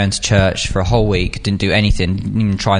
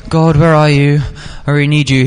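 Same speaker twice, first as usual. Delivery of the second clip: higher-pitched cry to God; calling on God; 6 semitones higher than usual. Retold or imitated. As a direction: imitate someone calling out for God. Acts out people calling on God.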